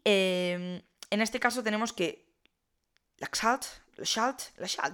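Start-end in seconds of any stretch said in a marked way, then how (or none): 3.2-4.6 Laxalt first with "ks", then with "sh"; testing two pronunciations. Shown as a demonstration. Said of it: "no sé muy bien cómo funciona esa X". 4.6-4.9 Laxalt with the X as "sh"; settling on a pronunciation. Shown as a demonstration. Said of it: "me imagino que será".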